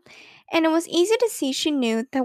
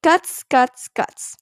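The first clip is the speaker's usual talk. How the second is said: punched-out mock yell, dying away at the end; restrained storybook yelling, first bursts loudest; 3 dB louder, much slower than usual. A narrator's reading. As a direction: spit out the word in separate bursts. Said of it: "she yelled".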